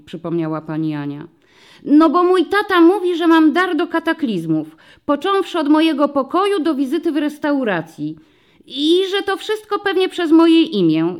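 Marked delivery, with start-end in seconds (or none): 1.8-11.2 put-on high, loud child voice; little girl explaining. A narrator's reading. Dorotka explains her talent for chaos: high eager child. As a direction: chatter like an eager first-grader.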